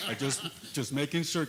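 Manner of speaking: chuckling through the words; light laugh while speaking. Real, not acted. Nervous mic check at meeting.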